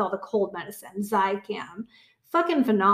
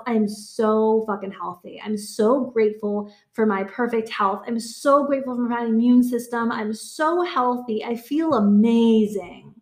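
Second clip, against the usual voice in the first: slow affirmations. Shown as a demonstration. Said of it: "telling myself".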